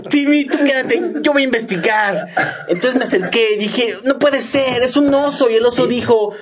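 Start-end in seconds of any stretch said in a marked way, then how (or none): 0.1-2.3 high, hammy cartoon dub voice; cartoon dub hero. Parodying a dubbed cartoon to friends, high hammy voice. 4.0-5.5 high, hammy cartoon dub voice; cartoon dub hero. Parodying a dubbed cartoon to friends, high hammy voice.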